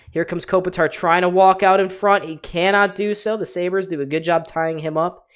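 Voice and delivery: excited hockey call, rising with the action; play-by-play. Acted. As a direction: call the rush as it builds. Live play-by-play of the game.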